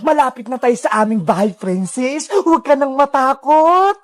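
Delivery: low-pitched captor voice, drawing out the last words; Sadako villain voice. Acted. Sadako leading Princess to her house, low and menacing. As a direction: coax the captive along in a low villain voice.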